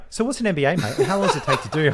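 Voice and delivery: hammed-up dopey mate asking again; mocking friend. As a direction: imitate the forgetful cohost. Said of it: "One minute later".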